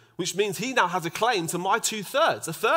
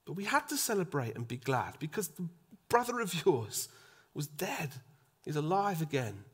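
softer, gentle father pleading; tender father; 6 dB quieter than usual. Retold or imitated. Father gently pleading with his angry elder son. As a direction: coax a hurt son gently. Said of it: "the father says".

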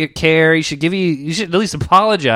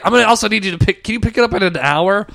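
swindler voice; 6 semitones higher, faster than usual. Retold or imitated. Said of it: "And he's like".

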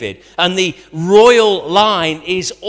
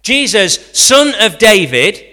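calling out; 5 semitones higher, 8 dB louder than usual. Shown as a demonstration. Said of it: "I'll say the phrase again".

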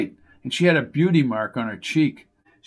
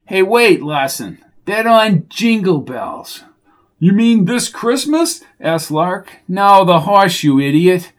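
gruff shout; 5 semitones higher, 5 dB louder than usual. Acted. Coco scolds Lark.

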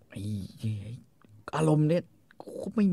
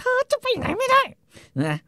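very high, slow protest; imitating a frantic wife; mock shrill wife; 4 dB louder, slower than usual. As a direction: squeal it out in a wife's voice. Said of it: "คอนนี่ก็บอกว่า".

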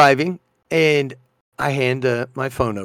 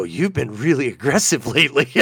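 laughing tease; 4 semitones lower, 5 dB quieter than usual. Retold or imitated. Teasing reply, laughing.

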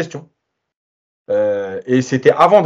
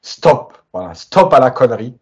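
raised, insistent voice; emphatic stop; 5 dB louder than usual. Real, not acted. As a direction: shout down the nonsense. Fed-up demand to stop.

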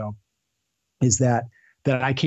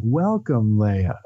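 Lando impression; 2 semitones lower, much slower than usual. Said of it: "he makes a real slow, drawn out thing".

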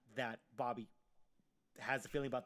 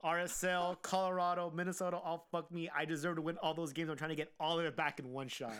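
worked up, higher and louder; on tilt; 4 semitones higher, 4 dB louder than usual. Real, not acted. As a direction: rant about the bad week. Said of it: "I am totally on tilt right now".

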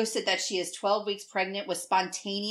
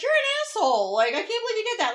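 high, fast, laughing scold; imitating a mom chewing out her son; half-laughing mock outrage; mock furious mom; 12 semitones higher, 5 dB louder, faster than usual.

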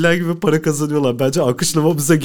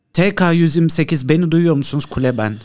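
lightly voiced radio controller; air traffic controller. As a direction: call the flight over the radio. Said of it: "Ben kuledeyim".

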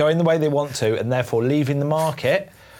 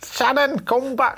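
laughing call; 11 semitones higher than usual. Real, not acted. Calling out while laughing.

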